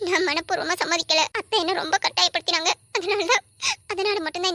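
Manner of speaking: tearful, voice catching on a sob; crying. Acted. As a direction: say it through tears. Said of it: "எதுக்கு அழுதுட்டு இருக்க".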